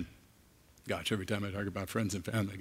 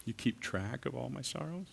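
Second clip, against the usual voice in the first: awed wonder; 4 semitones higher, 5 dB quieter than usual. Real, not acted. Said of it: "repeats verse in wonder".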